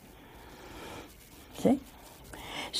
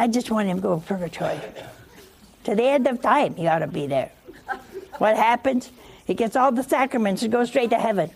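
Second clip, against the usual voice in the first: retold anger; 2 semitones higher, faster than usual. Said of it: "And she was angry".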